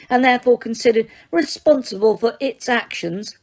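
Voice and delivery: high-pitched terrified. A narrator's reading. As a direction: squeak it out in panic, clinging to her titles. Umbridge's voice held on.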